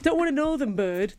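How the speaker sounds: put-on amateur stab at a northern English accent. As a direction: lightly imitate a northern English lad. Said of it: "That's my northern accent".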